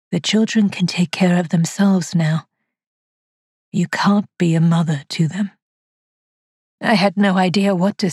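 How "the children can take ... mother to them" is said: lightly voiced caller, calm and eerie; lightly voiced ghostly caller. A narrator's reading. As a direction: speak like a faint voice from the dead.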